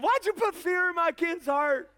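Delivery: high-pitched retold scolding; mock outrage of an upset father; imitated angry dad. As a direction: demand it like a dad telling you off. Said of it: "Paul was so mad at me".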